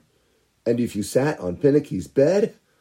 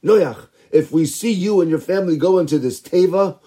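threatening villagers; 5 semitones higher, 3 dB louder than usual. Acted. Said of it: "began to threaten Noach".

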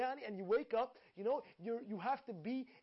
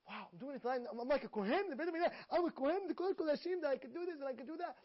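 higher, eager rush of wonder; thrilled; 5 semitones higher, faster than usual. Pretend. A listener washing hands at dawn, excited wonder. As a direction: gush like you just became a priest. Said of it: "when you wake up".

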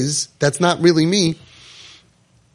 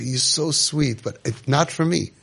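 slow and softer, tender; gentle, slow reassurance; 4 dB quieter, slower than usual. Retold or imitated. A parent telling the child to stay comfortable, slow and tender. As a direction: ease the child's mind, slowly and kindly.

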